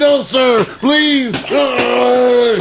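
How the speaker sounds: the date begging the dad to slow down, mock panic. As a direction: plead with the driver in fake panic.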